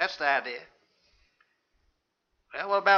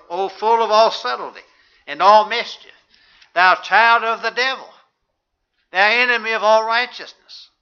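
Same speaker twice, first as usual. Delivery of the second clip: higher, louder denouncing voice; stern rebuke; 3 semitones higher, 5 dB louder than usual. Acted. Preacher voicing Paul rebuking the sorcerer, fierce and loud. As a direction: thunder it at the sorcerer like an accuser. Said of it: "Listen to how he addressed this fella".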